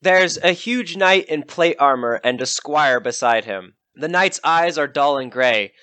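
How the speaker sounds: measured storyteller voice for a dungeon scene; scene narration. A narrator's reading. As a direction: set the scene like a game master. Game master describes the foes.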